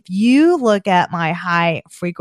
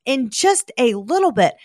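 dismayed retelling; 6 semitones higher than usual. Retold or imitated. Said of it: "And I thought".

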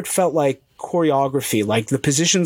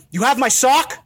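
blurted out laughing; 8 semitones higher than usual. Retold or imitated. Teller to the woman who kept his sock, laughing blurt. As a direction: blurt it out before you can stop. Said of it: "I just vomited out".

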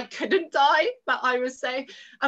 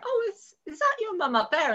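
nosy woman; 9 semitones higher than usual. Retold or imitated. Woman asks daughter about mum.

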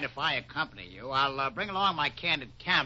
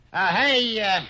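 loud, high hail; calling out; 10 semitones higher, 10 dB louder than usual. Acted. Photographer calling over to Harker, loud high hail. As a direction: raise your voice to catch someone far off.

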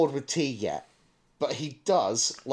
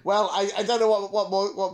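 words through a laugh, a bit higher; 7 semitones higher, 4 dB louder than usual. Real, not acted. Cohost laughing back at the grunt remark, laughing. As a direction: laugh while searching for words.

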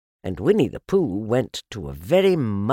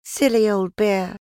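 put-on high, louder child's voice with affection; fond amusement; 11 semitones higher, 5 dB louder than usual. A narrator's reading. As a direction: tease a dear friend, pitched up. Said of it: "you laughed to yourself".

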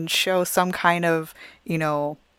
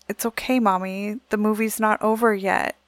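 put-on child's voice; 4 semitones higher than usual. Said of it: "Rex looks over and goes".

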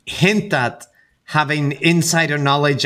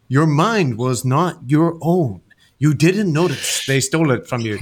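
bad voiceover. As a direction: narrate it like a cheesy thriller trailer. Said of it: "it's a bad voiceover".

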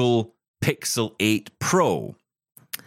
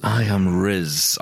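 slow, mock-seductive declaration; lightly hammed-up charmer; put-on Riz voice; 3 semitones lower, much slower than usual. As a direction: drawl it like a self-styled heartthrob. Playing up the Riz love voice.

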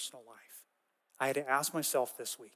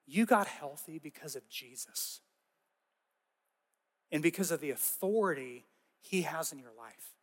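soft gentle correction, hushed at the start; very gently; 4 dB quieter than usual. Retold or imitated. Leader gently correcting the pastor at the dinner, softly. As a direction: kindly set him straight, not scolding. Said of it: "And just very gently".

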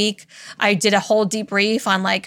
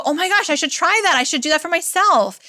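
higher, eager mock gushing over a strategy; starstruck; 6 semitones higher than usual. Listener dazzled by a brilliant peer, higher mock gush. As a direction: play the dazzled mastermind student. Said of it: "as you go".

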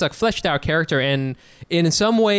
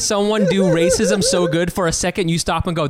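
amused disbelief; 3 semitones higher than usual. Retold or imitated. Retold amazed reaction, laughing.

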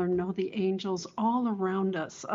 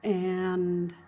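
guided meditation. Acted. Counting down into relaxation.

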